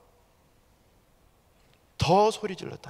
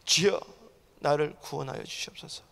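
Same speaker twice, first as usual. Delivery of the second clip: ordinary talk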